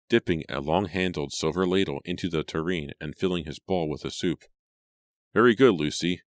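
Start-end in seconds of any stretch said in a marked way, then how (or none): 5.3-6.2 louder, higher approving praise. A narrator's reading. Father praising the maid, loud and approving. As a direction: pat the maid on the back with your voice. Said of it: "Simon said approvingly".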